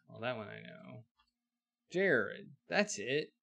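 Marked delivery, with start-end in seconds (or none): 1.9-3.3 a hint of a folksy frontier blacksmith, higher and louder at the start; old western blacksmith. Busy blacksmith calls to the newcomer, folksy drawl. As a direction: hail the stranger like a busy old smith.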